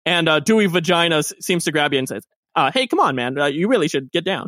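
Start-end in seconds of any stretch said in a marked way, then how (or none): 2.7-4.5 low, easygoing muscle; calm him down like a mellow doorman; lower bouncer voice. Acted. Dewey easing Albert off the stage, low and easygoing.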